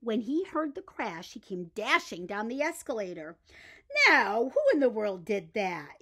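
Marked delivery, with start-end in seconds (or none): 4.1-6.0 louder, startled demand; exclaiming watchman. Acted. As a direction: call out into the dark store. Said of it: "he exclaimed".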